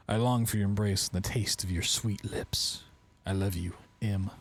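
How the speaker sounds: love letter read out, lifted a little. Acted. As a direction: read it aloud as a personal letter. Reads a love letter aloud.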